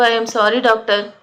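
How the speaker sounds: ordinary delivery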